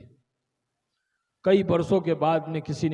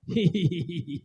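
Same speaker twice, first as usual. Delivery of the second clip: maid laughing. Acted. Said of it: "तो हंसने लगी".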